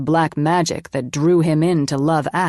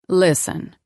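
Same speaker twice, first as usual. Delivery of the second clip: authoritative. Acted. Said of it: "said in an authoritative voice".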